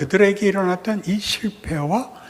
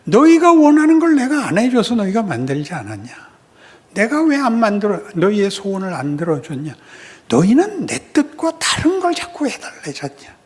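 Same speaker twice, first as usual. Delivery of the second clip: God rebuking; 4 dB louder than usual. Acted. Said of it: "하나님이 거꾸로 얘기하는 거예요".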